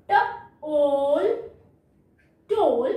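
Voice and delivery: "ट", then long "ओल", then "टोल"; phonics-style "ट - ओल - टोल"; sounded out. Shown as a demonstration. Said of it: "long sound देता है".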